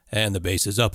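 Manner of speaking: boomy bass-heavy radio voice; full low end like radio; radio announcer sound. Shown as a demonstration. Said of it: "I sound like a radio announcer".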